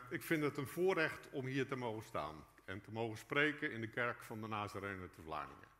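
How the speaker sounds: ordinary delivery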